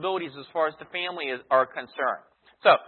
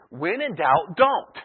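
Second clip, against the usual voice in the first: mock parental counsel; much slower than usual. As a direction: snap the word "don't" like a parent ending the discussion. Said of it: "same counsel that perhaps your parents gave you".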